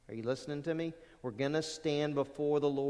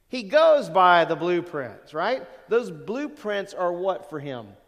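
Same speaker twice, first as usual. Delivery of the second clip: emphatic preaching; 2 semitones higher, 9 dB louder, slower than usual. Acted. Preacher stressing a point.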